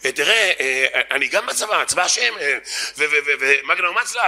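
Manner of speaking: stammering, hesitant excuse; flustered. Acted. Yeshiva student put on the spot about the army, flustered. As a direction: stall and stumble over the words. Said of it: "אז הוא נלחץ".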